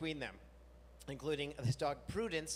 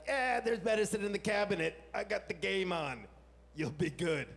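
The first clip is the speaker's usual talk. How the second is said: louder, offhand brush-off; dismissive to wife; 4 semitones higher, 6 dB louder than usual. Retold or imitated. Husband brushing off his sick wife, louder and offhand. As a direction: wave her off, game's on. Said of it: "I'm like".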